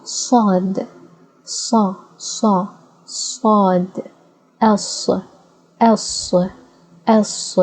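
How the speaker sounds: heavy s in "sad" and "sa"; gruffy S. Shown as a demonstration. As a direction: drill the gruff "S" again, slowly. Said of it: "it's a gruffy letter".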